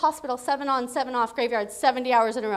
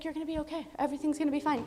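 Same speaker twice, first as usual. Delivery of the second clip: softly reassuring; quiet, motherly comfort; soothing mother; 8 dB quieter, faster than usual. Retold or imitated. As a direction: soothe a crying daughter gently. Retells mother soothing her while crying.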